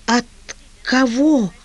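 mumbling through split lips; slurred, mumbled through swollen lips. A narrator's reading. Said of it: "невнятно пробормотала женщина разбитыми губами".

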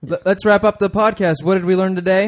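booming wrap-up call; loud announcer. Acted. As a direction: announce it loudly to the room. Host forces the outro.

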